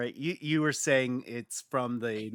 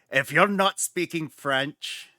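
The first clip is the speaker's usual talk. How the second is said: clumsy attempt at a French-Canadian accent; a botched, slight French-Canadian lilt; bad French-Canadian accent; 4 semitones higher, 4 dB louder than usual. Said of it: "completely did a bad accent".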